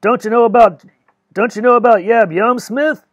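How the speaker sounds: loud booming call. Acted. Chafee striding in to Smith, big booming voice. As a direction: boom it out as he strides in. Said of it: "in his big booming voice".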